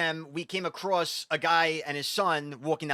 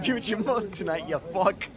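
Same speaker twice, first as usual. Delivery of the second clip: lightly imitating an angry man; a hint of a mock tough guy; mock threat; 3 semitones higher than usual. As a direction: echo his threat in amusement, pitched up a little. Laughingly echoes the man in clip.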